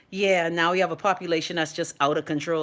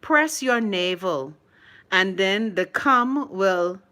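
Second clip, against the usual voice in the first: slow, holding back laughter; slower than usual. Real, not acted. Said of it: "I can't even say it with a straight face".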